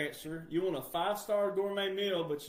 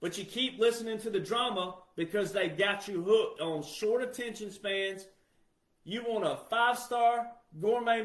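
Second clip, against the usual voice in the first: louder and higher impassioned rant; fired-up preaching; 4 semitones higher, 4 dB louder than usual. Acted. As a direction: preach it hard to the people.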